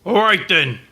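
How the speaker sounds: casual British "All right then"; mock British greeting, offhand; British accent. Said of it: "It's very British".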